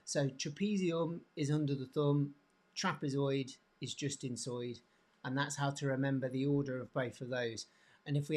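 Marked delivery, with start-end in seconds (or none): 0.3-4.8 lightly put-on Birmingham accent; Brummie accent. Shown as a demonstration. Teacher repeating the memory aid for students, light Brummie accent. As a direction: say the mnemonic with a touch of Brummie. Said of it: "speaking a bit of Brummie".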